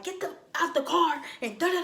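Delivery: high mock bossy voice; mimicking her. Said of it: "So she like".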